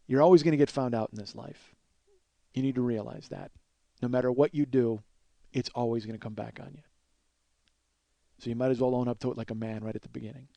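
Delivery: measured life lesson with pauses; calm and stern. Retold or imitated. Dan lectures the boy in the car, calm and stern. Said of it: "being calm and being reasoned and being stern".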